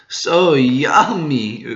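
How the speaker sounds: very slow, drawn-out greedy relish; Big Mom savouring. Acted. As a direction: stretch it out, hungry for the cake. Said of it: "Big Mom says".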